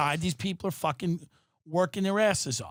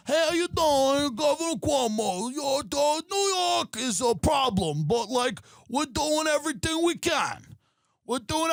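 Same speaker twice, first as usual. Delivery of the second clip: much higher, slow, hammy New York politician voice; 9 semitones higher than usual. Retold or imitated. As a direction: ham it up like a governor on TV. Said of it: "Hey, it's someone".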